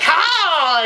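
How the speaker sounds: mock triumphant "ha", drawn out, pitch swooping up; gloating goddess. Goddess to Arthur on finding the will, gloating. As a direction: crow it like a gloating villainess. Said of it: "she's gonna be like".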